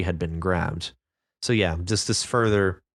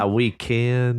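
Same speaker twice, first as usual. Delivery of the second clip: drawn-out drawl; slow put-on voice; 2 semitones higher, slower than usual. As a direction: stretch it out slowly. Role-play reply.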